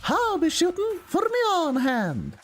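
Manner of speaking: high-pitched hammy British character voice; put-on British accent. Streamer psyching up for a game character's accent, high British voice. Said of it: "psych myself up to do this whatever accent I gave you before".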